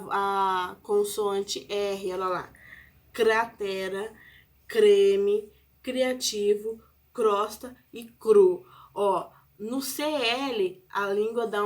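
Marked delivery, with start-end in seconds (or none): 3.1-8.6 careful "Cratera, creme, criativo, crosta e cru", tongue catching on each CR. Shown as a demonstration. Teacher showing how the tongue catches in CR, demonstrative articulation. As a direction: sound each CR cluster distinctly, word by word. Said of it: "ela dá uma travadinha".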